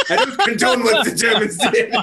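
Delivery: laughing mock German accent. Disowning history to friends, laughing German accent. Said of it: "still doing a German accent".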